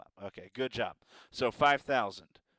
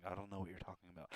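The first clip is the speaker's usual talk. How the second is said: mock denial; 5 semitones lower, 14 dB quieter, much faster than usual. Denying embarrassment.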